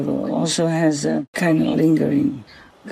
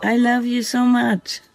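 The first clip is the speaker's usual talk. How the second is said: tender talk to fox; 5 semitones higher than usual. Real, not acted. Woman talking lovingly to the fox that visits nightly, tender. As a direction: gently reassure a small animal you love.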